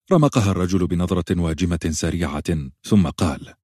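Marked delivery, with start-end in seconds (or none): none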